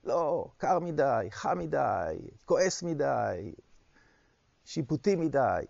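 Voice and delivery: drawn-out mock whine, each complaint stretched; mock wailing complaint. Teacher imitating people pushed out of their comfort zone, mock wailing. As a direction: whine it slowly, a half-hearted imitation of screaming. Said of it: "מתחילים לצרוח".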